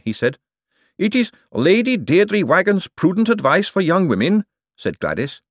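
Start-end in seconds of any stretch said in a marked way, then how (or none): 1.0-4.4 high, loud golem voice in alarm; a huge clay golem, horrified. Acted. Golem Gladys speaking.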